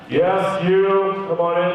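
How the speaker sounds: curt official at the interview; no-nonsense officer voice; stern interrogator. Retold or imitated. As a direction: summon them like an interrogator. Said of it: "the tone became immediately different".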